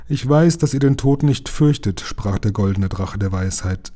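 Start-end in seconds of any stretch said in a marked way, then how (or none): 0.1-2.0 the dragon recalls its ancient deed; ancient dragon recounting. A narrator's reading. Dragon speaks. (alter Drache, feierlich erzählend)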